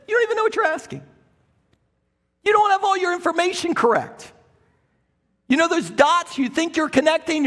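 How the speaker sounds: high, exasperated rebuke; Jesus sighing at clueless disciples; a touch of weary exasperation. Retold or imitated. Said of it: "sighs, and says".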